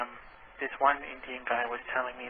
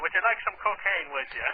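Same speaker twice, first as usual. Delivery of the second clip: mock Irish accent; 5 semitones higher than usual. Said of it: "it sounds Irish".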